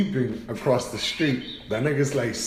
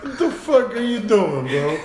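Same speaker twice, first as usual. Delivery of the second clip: raised pitch, laughing incredulity; mock disbelief; 5 semitones higher than usual. Dog questions the man getting closer, comically baffled. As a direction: play the baffled dog, amused. Voicing the staring dog's reaction.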